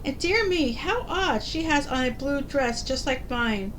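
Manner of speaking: wonderstruck, lifting on dear me; astonished wife. Acted. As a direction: marvel at a strange new sight. Wife marvels at mirror.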